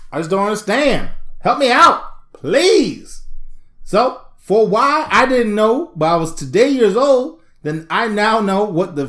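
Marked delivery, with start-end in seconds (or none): 3.8-5.1 drawn-out question. Pretend. Repeats question, slowed.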